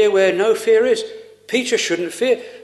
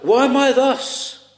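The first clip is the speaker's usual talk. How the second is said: plaintive questioning, pitched higher; mild crying out; 4 semitones higher than usual. Retold or imitated. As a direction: cry out Rebecca's question, lightly acted. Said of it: "if you cry out with Rebecca".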